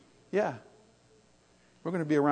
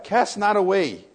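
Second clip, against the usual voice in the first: scripture reading; 5 semitones higher, 8 dB louder, slower than usual. Shown as a demonstration. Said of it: "chapter eleven".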